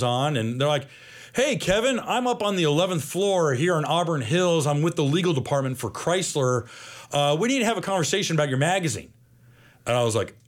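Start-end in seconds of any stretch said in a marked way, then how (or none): 1.3-9.1 high, brisk official phone greeting; lightly voiced corporate caller; retold legal caller. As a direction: imitate a businesslike caller, pitched up. Retold phone call from legal department.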